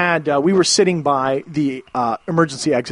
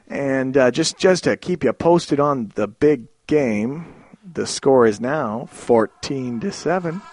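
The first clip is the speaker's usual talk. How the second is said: laid-back pilot; slower than usual. Retold or imitated. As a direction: drawl it like a sleepy captain. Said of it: "Most laid-back pilot in existence".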